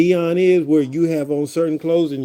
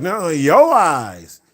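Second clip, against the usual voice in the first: slow drawn-out; 3 semitones higher, 5 dB louder, much slower than usual. Retold or imitated. Playful back and forth.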